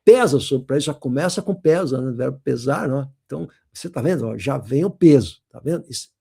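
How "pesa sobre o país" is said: weighty, loud first word; dramatic editorial opening. Shown as a demonstration. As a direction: hit "Pesa" hard, like a grave editorial. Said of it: "Ele tá falando sobre um assunto grave".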